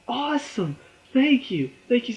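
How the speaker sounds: high delighted thanks; mock delight. Vlogger acting out a delighted birthday thank-you, high pitched.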